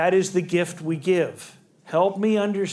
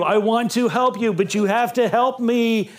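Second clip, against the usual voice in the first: desperate agent quote; 4 semitones higher, 3 dB louder than usual. Retold or imitated. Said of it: "from Jerry Maguire?".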